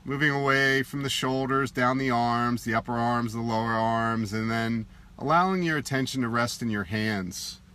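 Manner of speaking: unhurried meditation guide, long pauses between phrases; guided meditation. Acted. Teacher guiding listeners to soften face and shoulders, in meditation voice. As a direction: gently lead a body relaxation, leaving space after each instruction.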